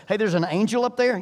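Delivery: a loud, high alarmed cry of a talking donkey; hammed-up donkey pointing out the angel; excited donkey voice. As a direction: shout it like a startled animal. Donkey voiced in Bible story.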